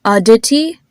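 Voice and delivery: "Aditi" in American English, crisp hard d and t; American pronunciation. Shown as a demonstration. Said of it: "with an American pronunciation".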